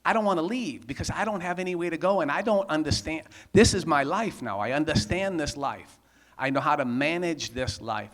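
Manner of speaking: frantic pleading. Retold or imitated. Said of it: "I'm trying to talk them out of it".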